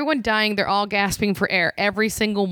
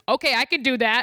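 plain; 4 semitones higher than usual. Retold or imitated. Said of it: "He goes".

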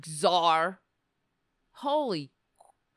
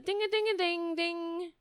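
mock singsong; 8 semitones higher, 3 dB quieter than usual. Mimics the mocking chant.

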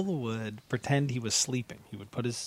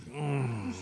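mock sleepy hum; pretend waking groan; 4 dB quieter than usual. Student pretends to wake before the teacher, mock sleepy groan. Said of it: "pretend he's waking".

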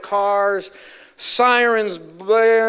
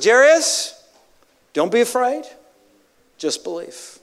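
tender reassurance. Acted. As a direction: reassure him gently, eye to eye. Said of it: "looks him in the eye".

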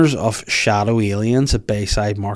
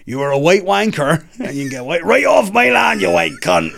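put-on raised-pitch African-accented rant; acted indignant African accent; mock African accent; 5 semitones higher than usual. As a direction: pretend to order them off in an African accent. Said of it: "you, you, like".

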